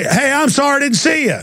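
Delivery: high, sing-song sorry; mock polite apology. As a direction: act overly nice to smooth it over. Apologizing to woman from truck.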